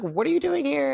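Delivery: high-pitched incredulous question; astonished aunt. Retold or imitated. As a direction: imitate a startled aunt, up high. Aunt's startled reaction, retold.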